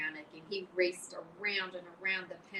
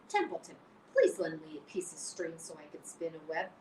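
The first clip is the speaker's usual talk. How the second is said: disgust. Acted. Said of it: "he said in disgust".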